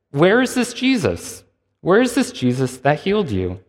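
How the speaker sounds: high, pressing question; demanding question. Retold or imitated. Pharisees pressing the healed man, high demanding question.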